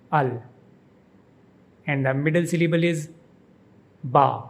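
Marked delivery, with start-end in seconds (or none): 0.1-0.4 al said alone, stressed as in AL-ba-res; stressed syllable al. Shown as a demonstration. Teacher isolates the stressed first syllable of Alvarez. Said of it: "the emphasis is on the beginning syllable". 4.0-4.4 ba as in AL-ba-res, lips closed for b. Shown as a demonstration. Teacher shows that the v in Alvarez sounds like b. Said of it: "V is pronounced like B".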